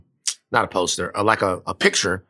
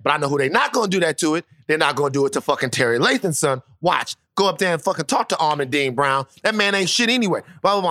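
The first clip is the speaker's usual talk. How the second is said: indignant dad; 4 semitones higher, faster than usual. Retold or imitated. Dad rants about principal.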